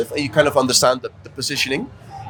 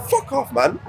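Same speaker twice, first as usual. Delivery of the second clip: higher mock snap from an offended girl; imitating angry girls; 10 semitones higher, slower than usual. Girls in a bar tell him off, high mock anger. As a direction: throw it back at him, high and indignant. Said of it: "they got really mad".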